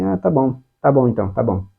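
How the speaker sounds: dismissive boss. Retold or imitated. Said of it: "chega o seu chefe e fala assim".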